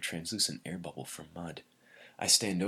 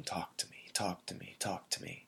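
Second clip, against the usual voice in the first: hushed, near-whispered plea, over and over; quiet broken-record pleading; soft pleading repeat; 5 dB quieter than usual. A narrator's reading. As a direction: murmur it like a stuck record. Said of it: "the broken record of her voice".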